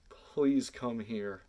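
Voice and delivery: very slow, drawn-out please come here; patient drawn-out plea; slow pleading. Retold or imitated. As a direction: stretch each word out like a last hope. Drawn-out pleading with defiant girl.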